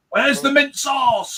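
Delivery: high, slow mocking call; teasing. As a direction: taunt it gleefully. Teasing Welsh sheep joke.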